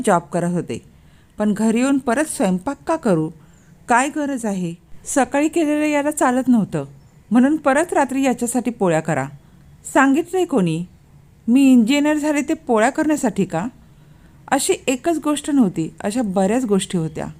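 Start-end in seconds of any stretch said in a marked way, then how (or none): 3.9-13.7 irritated, higher-pitched rhetorical questions; indignant protest. Acted. Wife's indignant inner protest in story. (चिडून, वैतागलेला सूर)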